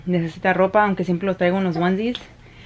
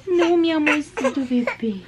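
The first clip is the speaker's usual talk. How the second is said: laughing coo; 7 semitones higher than usual. Real, not acted. Mother laughing fondly at her baby.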